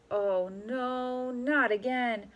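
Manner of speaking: weary. Acted. Weary man's thought.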